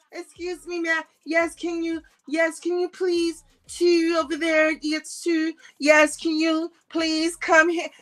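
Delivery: high pleading mock-frightened voice; mock scared woman. Mocking the coward pleading to be let in, high and scared. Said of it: "that's what I be screaming".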